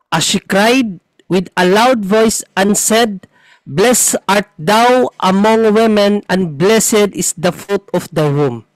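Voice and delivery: slow, measured Bible reading; scripture reading. Acted. Showing a brother the Catholic English Bible's wording, slow scripture reading. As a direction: read the verse out slowly, phrase by phrase. Reads Bible verse aloud.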